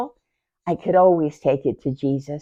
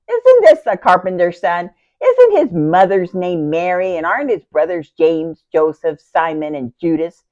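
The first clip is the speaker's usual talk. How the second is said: raised-voice quotation, opening forcefully; declaiming a quote; 6 dB louder than usual. Acted. Sister quotes townspeople asking about the carpenter's son, declaiming. Quoting townspeople's questions from scripture.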